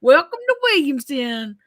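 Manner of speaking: lightly imitated Southern greeting; Southern charm. Imitating the recorded spirit voice, light Southern accent. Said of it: "that's that Southern charm".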